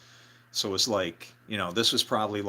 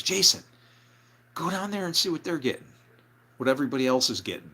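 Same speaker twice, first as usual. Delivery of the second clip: higher voice, sending him off; bossy order; 5 semitones higher, faster than usual. Retold or imitated. Mark sending Jason down to check, bossy order. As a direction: imitate a bandleader giving orders, pitched up.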